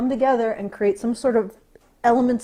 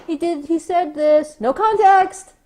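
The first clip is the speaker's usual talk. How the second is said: mock weasel-word quote; 4 semitones higher than usual. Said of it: "They'll use weasel words and say".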